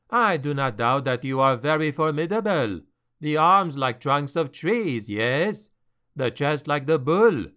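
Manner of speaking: put-on lightly French-accented captain, polite but doubtful; a hint of a French trader, flattering yet unconvinced; a hint of a French accent, gently doubting the dwarf.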